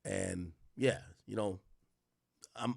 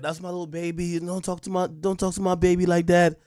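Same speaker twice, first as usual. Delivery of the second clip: 1 mock protective mom; 5 semitones higher, 6 dB louder than usual. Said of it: "a mom is gonna look at me like".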